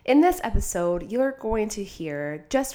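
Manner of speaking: stuffy nose from a head cold; talking through a blocked nose. Real, not acted. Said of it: "why I sound like I have a cold".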